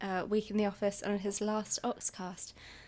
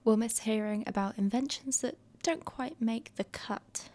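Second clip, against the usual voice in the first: whispering. Real, not acted. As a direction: whisper it close to the mic. Reads farewell compilation intro.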